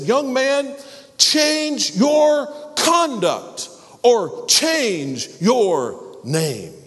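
very high, loud, slow furious scream. Acted. King screaming at the cowardly soldier. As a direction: scream the ultimatum right in his face. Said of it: "screamed at him".

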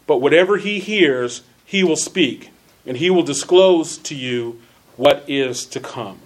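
measured reading with key words punched; emphatic, well-enunciated Bible reading; deliberate scripture reading. Real, not acted. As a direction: read scripture out with careful elocution. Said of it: "that's emphasizing certain words".

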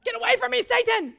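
laughing, bark it away; playful loud rebuke of the devil; mock rebuke. Rebuking a discouraging person.

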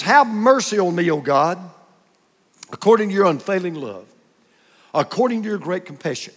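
measured, careful scripture reading; slow careful reading. Shown as a demonstration. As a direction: read the psalm slowly, word by word. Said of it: "So I'm gonna read this slowly and carefully".

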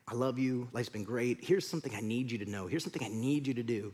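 soft, low last words to loved ones; deathbed farewell. Acted. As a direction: speak quietly and low, as if from a deathbed. Voices a dying person's last words.

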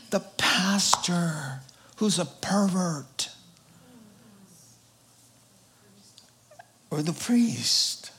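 slow unvoiced whisper; hushed, slow scandal aside. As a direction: whisper it like a shameful secret.

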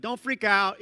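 Jesus calling over the waves, firm and loud; firm reassurance. Shown as a demonstration. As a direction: call out "Don't freak out" with conviction.

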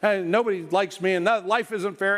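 mildly voiced pouting king; whiny tantrum. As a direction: whine like a three-year-old in a lightly voiced sulk. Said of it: "throwing a little temper tantrum".

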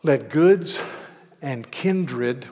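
hymn line called out loud and strong; loud proclamation of a hymn line; proclaimed loud. Shown as a demonstration. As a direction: declaim "Let goods and kindred" loudly, as a hymn. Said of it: "he says, in part, this".

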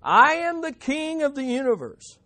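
high-pitched grandiose yell; acted madman's proclamation, high and ringing. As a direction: yell it like a deluded monarch.

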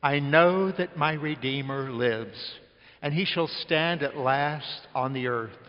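slow, measured reading aloud together; leading the church in a slow, solemn recitation; congregational reading. Real, not acted. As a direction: read it slowly with the congregation. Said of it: "Let's all read it out loud".

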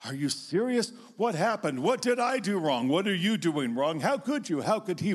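mock a parent's shouted shock; half-acted distraught shouting; panicked scream. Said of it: "will want to scream".

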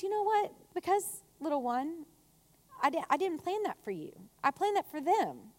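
softly spoken, patient explanation; gentle God. Retold or imitated. God answers a grumpy believer as "little one", gentle. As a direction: soothe a child who was passed over. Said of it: "And God goes".

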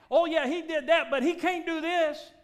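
high, loud mock scoff; doubting believer. Preacher mocking doubters who limit God. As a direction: sneer it like a skeptic. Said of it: "We think God's not gonna act".

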